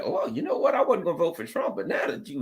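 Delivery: hushed thinking-aloud, put on; musing imitated voter. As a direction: imitate someone quietly reconsidering. Voices voters reconsidering their vote.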